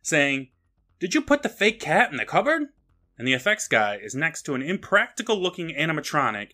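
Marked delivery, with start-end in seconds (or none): 1.0-2.6 high-pitched mock demand; retold yell. Director yelling at the effects guy, retold yell. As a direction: act out a director calling across the set. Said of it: "yells at the special effects guy".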